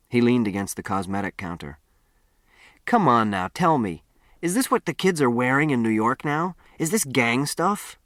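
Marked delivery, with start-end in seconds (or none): 2.9-8.0 lightly voiced cocky kid prodding for answers; pushy, teasing town boy. Town boy pressing the odd stranger about his clothes, lightly teasing. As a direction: needle him like a nosy know-it-all.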